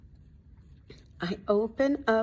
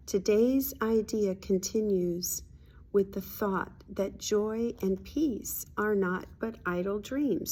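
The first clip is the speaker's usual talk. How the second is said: slow, deliberate reading aloud; reading a spiritual lesson. Acted. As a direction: read it out slowly, phrase by phrase.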